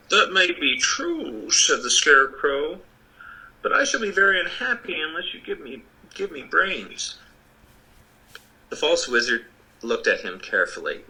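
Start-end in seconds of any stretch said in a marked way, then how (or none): 0.1-7.2 Scarecrow voice. Acted.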